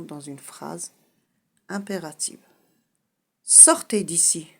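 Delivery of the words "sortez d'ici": loud stern order. Shown as a demonstration. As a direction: command them out. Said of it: "je donne un ordre". (ordre sec et fort)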